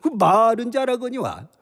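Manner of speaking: tipsy general mocking his foes; lightly slurred, scornful drunk general; drunk Cao Cao. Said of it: "술 취한 연기예요".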